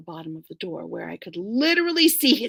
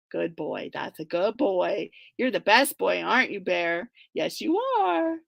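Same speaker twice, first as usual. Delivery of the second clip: put-on sweet baby talk; 2 semitones lower than usual. Man lightly cooing praise to his dog. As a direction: coo to the dog gently. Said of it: "The sweetest ooey gooey voice".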